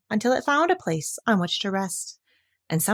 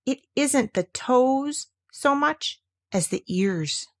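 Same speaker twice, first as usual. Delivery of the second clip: slow and earnest; a grave, slow little confession; solemnly; 4 semitones higher, slower than usual. Acted. Piglet gravely correcting Pooh's song, slow and solemn. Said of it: "he said solemnly".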